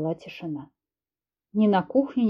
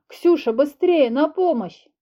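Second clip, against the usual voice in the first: urgent call for help; 6 semitones higher, 3 dB louder, slower than usual. Acted. Filya calling for help.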